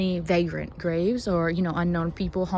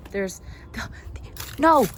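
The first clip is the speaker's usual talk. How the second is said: whispered stumble that jumps up in pitch; flustered whisper; 2 semitones higher than usual. Real, not acted. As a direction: catch yourself mid-whisper. Fumbling over a find, whispered.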